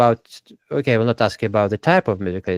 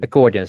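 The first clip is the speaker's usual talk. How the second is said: accordion with a louder COR; stress on second syllable; 5 dB louder, faster than usual. Shown as a demonstration. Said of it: "rest is on the second syllable".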